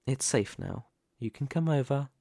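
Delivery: soft, settled calm after confrontation; reassuring. Acted. Telling a partner it is safe now, reassuring. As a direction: ease right down, gently coaxing. Standoff over, calls partner out of danger.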